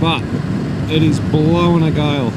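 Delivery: muffled under roaring wind; talking inside a motorcycle helmet. Real, not acted. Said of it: "I can hear a hell of a lot of wind noise in my helmet".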